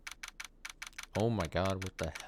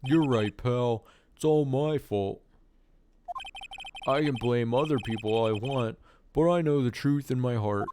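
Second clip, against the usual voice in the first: Detective Gumshoe voice. Acted. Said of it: "my Detective Gumshoe voice".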